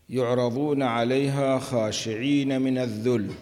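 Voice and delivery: lifted, chanted verse quote; verse recitation. Acted. Teacher quoting the verse to the class, recited. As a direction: intone the verse apart from the explanation.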